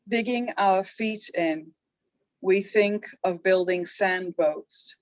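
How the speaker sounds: slow, measured recital with a pause after each line; haiku reading. Acted. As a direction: read the haiku unhurriedly, line by line. Reads last haiku twice.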